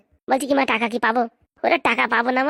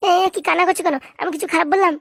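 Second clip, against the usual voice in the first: surprised; 6 semitones higher than usual. Acted. Asks why he is crying.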